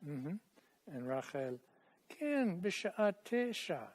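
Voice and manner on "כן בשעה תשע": higher model of "כן, בשעה תשע"; Rachel's line modelled. Shown as a demonstration. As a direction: lift the voice to model it. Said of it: "Try it".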